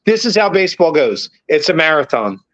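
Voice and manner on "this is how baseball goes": pitched way up, exasperated and fired up; worked-up rant. Real, not acted. Podcaster ranting at fans who want to sell the team, high and exasperated. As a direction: push back hard, voice climbing high. Mocking the fans' panic.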